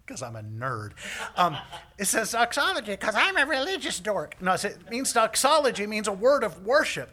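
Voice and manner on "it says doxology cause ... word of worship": high, loud shouted explanation; hammed-up shouted reply; yelling back. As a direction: holler it out to someone far off. Shouting back over a distance.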